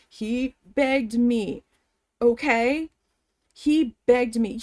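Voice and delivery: slow, drawn-out "begged"; emphatic insistence. Retold or imitated. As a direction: hammer "begged" slowly, word by word. Acted argument with manager.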